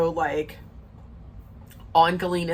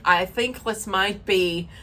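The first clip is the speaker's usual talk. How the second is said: put-on slow, unconvincing Russian accent; bad Russian accent; slower than usual. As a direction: attempt a Russian accent, badly. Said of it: "that's not a good Russian accent".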